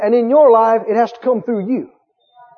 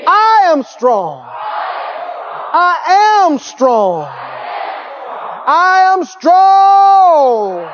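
preaching shout; 4 semitones higher, much slower than usual. Shown as a demonstration. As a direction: cry it out with full conviction. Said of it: "Repeat after me".

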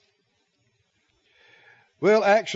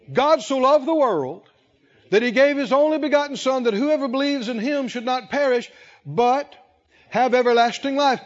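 raised, ringing preacher's reading of the verse; scripture reading; 6 semitones higher than usual. Acted. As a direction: proclaim the verse to the congregation. Reads John 3:16 aloud.

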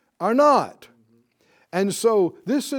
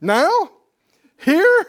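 high, laughing cries of disbelief; preacher voicing the amazed crowd, laughing astonishment; astonished crowd; 7 semitones higher, 8 dB louder, much slower than usual. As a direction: gasp it out like the crowd can't believe it's happening now. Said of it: "And the people said".

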